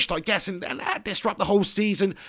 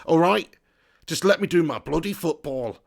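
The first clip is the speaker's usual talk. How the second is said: low, soft mock football-manager voice; a light, low take on an old-school manager; Brian Clough; 5 semitones lower, 6 dB quieter than usual. Streamer slipping into a manager's voice mid-rant, mock impression. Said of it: "I've turned into Brian Clough".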